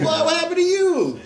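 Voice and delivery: high, loud, put-on astonishment; shocked cashier. Cashier seeing whooped customer, mock shocked. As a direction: gawk aloud at a beaten customer. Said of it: "go inside the cashier".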